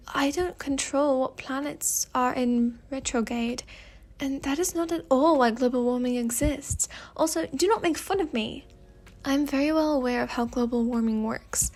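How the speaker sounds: put-on indignant retort in a British accent; Fate's British accent. Fate objects to being made fun of, British accent. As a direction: protest the mockery with a British accent. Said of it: "speaking in a British accent".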